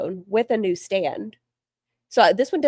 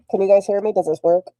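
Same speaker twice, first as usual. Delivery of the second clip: talking into a cup; 4 dB louder, faster than usual. Real, not acted. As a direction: voice muffled inside a cup. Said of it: "What if I talk into my cup".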